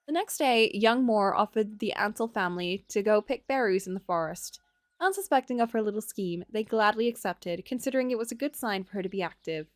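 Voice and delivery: calm storybook narration; story narration. A narrator's reading. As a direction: read it like a fairy tale. Reads the game's story.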